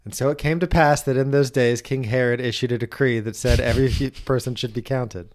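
grand King James reading, laughing; mock scripture reading. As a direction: read it like the Gospel.

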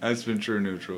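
soft, deadpan sign-off; too calm. Pretend. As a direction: say it quietly and flatly. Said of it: "You're too calm".

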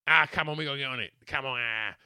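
hammed-up pleading to get on it; new guy pushing the stag group to party, fast and loud; pushy urging.

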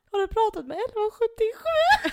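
high laughing squeal of a quote; shrieking with laughter through the line; laughing mock operator. Retold operator, laughing shout.

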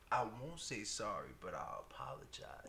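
low, hushed compromise; retold stubborn son. Son refusing dad's wording, imitated low near-whisper. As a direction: offer it very quietly, in the son's words. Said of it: "he said".

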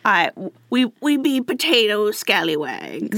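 mock Irish that comes out pirate; pirate-like Irish accent. Co-host insists this is how Irish people talk, pirate-sounding Irish accent. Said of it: "just doing a pirate accent".

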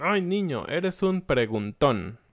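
sighing parent, slowing down; a tired parent giving up; exasperated parent. Retold or imitated. Worn-out parent to a questioning child, exasperated. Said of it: "los papás se desesperan y dicen".

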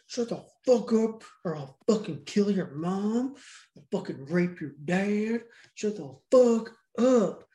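hammed-up menace, rising to a drawn-out last command; mock angry threat. Retold kidnapper threatening the little kid, mock angry. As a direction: play the bullying kidnapper, slow down on the final order.

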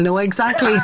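words breaking into a laugh; amused, starting to laugh. Real, not acted. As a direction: laugh as you say it. Laughing over shared memory.

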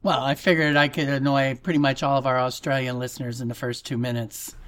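quick, badly faked Australian accent; a hint of British in a mock Australian accent; fake Australian accent. Host teasing Australian listeners, fake Australian accent. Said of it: "British guy trying to be fake an Ameri-, uh, Australian accent".

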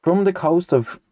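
sing-song verse reading, pitch swooping on the lines, sinking on the refrain; storybook rhyme read out with relish; nonsense poem recitation. Acted. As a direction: recite comic verse with a lilting, measured beat. Reads a nonsense poem aloud.

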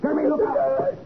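sudden high shout of alarm; shouted warning. Acted. Nick warning Kirby on the ladder, alarmed shout. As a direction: yell the warning as he falls.

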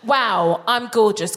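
"Wow, I'm gorgeous" run together without a breath; no breath between. Shown as a demonstration. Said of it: "Don't put a breath in there".

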